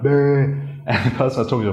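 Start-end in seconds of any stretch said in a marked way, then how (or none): 0.0-0.6 "Bah" held long with a rounded mouth; rounded-mouth vowel. Retold or imitated. Teacher recalls own odd attempt, rounded-mouth vowel. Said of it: "with my mouth rounded".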